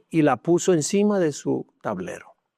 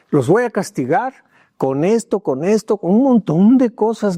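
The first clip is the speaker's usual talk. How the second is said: stern father; 5 semitones higher, 5 dB louder than usual. Retold or imitated. Angry father hands out punishment.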